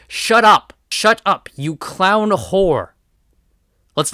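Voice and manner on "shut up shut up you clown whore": loud, higher furious yell, slowing at the end; angry shout. Real, not acted. Ranting at Harley Quinn in the game, furious shout. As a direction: shout her down in disgust.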